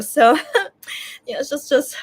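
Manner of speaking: high laugh mixed with crying; teary laugh. Real, not acted. Touched by the friend, laughing through tears. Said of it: "very touched".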